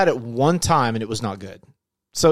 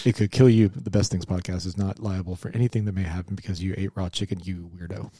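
quick, low, dropping disclaimer read; fast legal disclaimer; 6 semitones lower than usual. Acted. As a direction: rattle off the fine print. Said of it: "legal, legal disclaimer".

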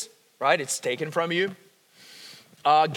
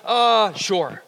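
reluctant "uh, sure"; 4 dB louder than usual. Retold or imitated. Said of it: "If instead of".

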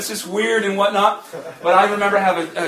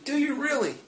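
soft questioning, pitched higher; gentle voice of God; 8 semitones higher, 3 dB quieter than usual. Retold or imitated. God gently doubting the preacher's love, soft and higher. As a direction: ask it gently, a little higher. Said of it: "The Spirit of God said gently".

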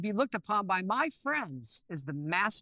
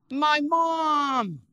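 ordinary delivery

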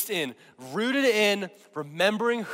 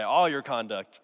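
with attitude; 7 semitones lower than usual. Shown as a demonstration. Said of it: "with some attitude and say".

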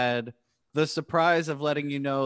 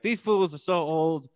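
higher, mocking teen voice; young kid voice; 4 semitones higher than usual. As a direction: sneer it like a teenager. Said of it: "That's what young kids sound like to me".

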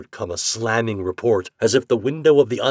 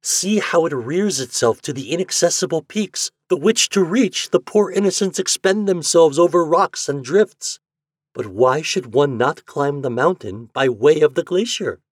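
higher, louder excited woman's voice; eager proclamation; 6 semitones higher, 4 dB louder than usual. A narrator's reading. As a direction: sweep him up in the idea. Wife proclaiming her bold plan.

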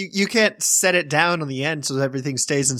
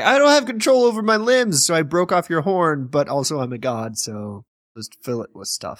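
mock Zeus voice. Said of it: "He's like".

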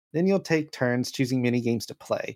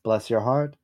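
put-on Southern accent; 4 semitones lower than usual. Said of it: "Do a light Southern accent".

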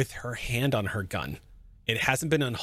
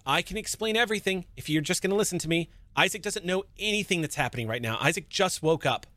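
pleading; 4 semitones higher, faster than usual. Acted. Kea pleading under gunpoint.

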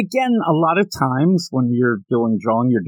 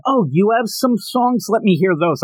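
eager singer; 7 semitones higher than usual. Retold or imitated. A singer to the artist, high and eager. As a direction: play a keen singer asking for songs. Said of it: "he ends up saying".

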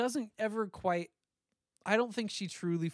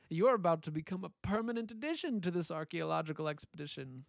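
cartoon villain voice. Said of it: "Dick Dastardly".

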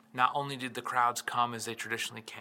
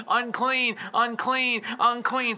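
high, louder cry of unclean, falling each time; calling out unclean; 8 semitones higher, 5 dB louder, slower than usual. Retold or imitated. Outcast woman warning the crowd, high louder cry. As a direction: call out the warning. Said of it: "she had to yell".

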